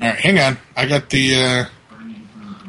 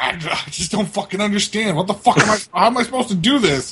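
higher-pitched, baffled complaint; mock exasperation; 5 semitones higher than usual. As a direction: imitate a frustrated, clueless player. Retelling frustrated fellow player's complaint.

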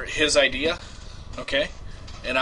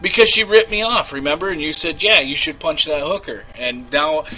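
pleading. Acted. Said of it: "I will play me".

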